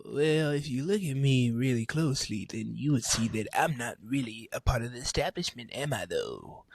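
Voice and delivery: lightly put-on celebrity voice, trailing down; a hint of an actor's affected accent; a famous singer's voice. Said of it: "he was doing a voice".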